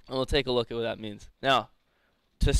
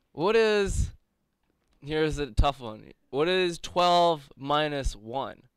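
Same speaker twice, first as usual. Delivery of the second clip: hammy stage actor; much slower than usual. Acted. Quizmaster voice again.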